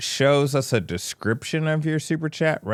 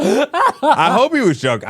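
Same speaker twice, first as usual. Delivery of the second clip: laughing; 12 semitones higher, 5 dB louder than usual. Real, not acted. Laughing while talking.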